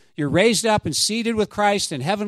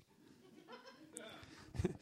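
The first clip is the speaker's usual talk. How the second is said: high, laughing protest; 10 semitones higher, 7 dB louder than usual. Real, not acted. Pastor laughs at his own complaint about songs. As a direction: laugh it off with a grin.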